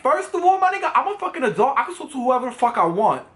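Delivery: high, fired-up retort; heated comeback. Retold or imitated. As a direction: shoot back, high and indignant. Snaps back at jealous boyfriend.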